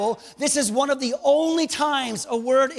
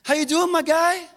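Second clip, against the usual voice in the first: too-casual greeting; 3 semitones higher than usual. Acted. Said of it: "Don't treat him common".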